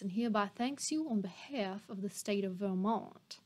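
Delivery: a light Georgia judge voice, formal; Southern judge accent. Acted. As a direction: address the jury like a Georgia judge. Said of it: "He can be from Georgia and be a judge in Vermont".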